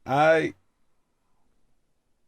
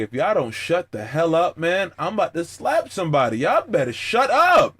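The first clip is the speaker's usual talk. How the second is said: mock threat; 4 semitones higher than usual. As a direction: scold the kids half-joking. Threatening noisy kids.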